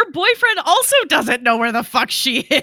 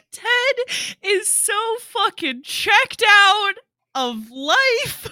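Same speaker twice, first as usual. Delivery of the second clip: laughing; 11 semitones higher, 4 dB louder, slower than usual. Real, not acted. Laughing about Ted.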